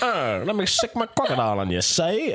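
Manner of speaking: lightly voiced old-time mobster; a hint of gangster menace, played for laughs; 1930s gangster. Villain threatening to set his crocodile on someone, mock gangster. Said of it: "you talk like a fucking nineteen".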